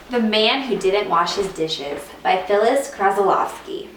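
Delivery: put-on lively storybook reading for young students; reading to children. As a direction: read it like a teacher at story time. Teacher reads picture book aloud.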